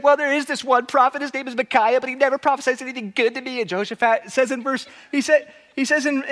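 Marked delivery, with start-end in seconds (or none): 0.0-3.6 put-on a touch of whiny baby, higher; grumbling like a sulky child. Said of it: "he kind of just seems like a whiny baby here".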